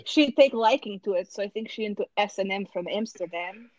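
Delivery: put-on Russian-accented English, deadpan. Improvising a story in accent class, Russian accent. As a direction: spin the tall tale in a Russian accent. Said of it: "with a Russian accent".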